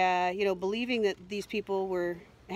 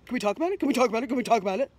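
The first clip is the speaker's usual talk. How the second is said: higher, pestering plea, a touch louder; pleading imitation; 3 semitones higher, 5 dB louder, much faster than usual. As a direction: nag like someone chasing you.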